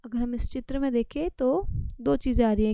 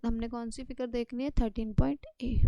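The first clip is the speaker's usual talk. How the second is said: whispered aside; 6 dB quieter than usual. Real, not acted. Teacher checks figure number aside.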